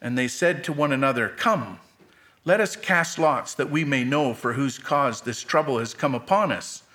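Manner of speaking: measured Bible reading, phrases falling at the ends; solemn scripture read. Acted. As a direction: read the Word steadily to the church.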